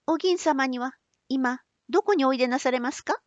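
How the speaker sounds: put-on high, quick young woman. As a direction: ask lightly as a young girl. Otsu asks.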